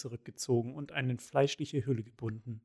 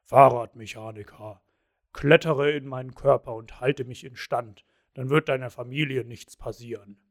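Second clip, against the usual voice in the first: low, loud, rumbling giant voice; 3 semitones lower, 5 dB louder than usual. Acted. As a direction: rumble it like a rattling metal giant. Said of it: "redete mit grollender Stimme".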